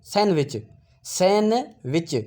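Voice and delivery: सैंडविच drawn out slowly with a rise; सैंडविच stretched out, d dropped; slow model pronunciation. Shown as a demonstration. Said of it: "सैंड नहीं है".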